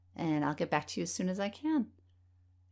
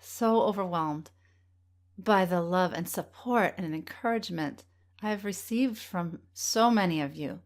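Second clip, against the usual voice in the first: getting emotional. Real, not acted. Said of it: "I'm gonna get emotional now".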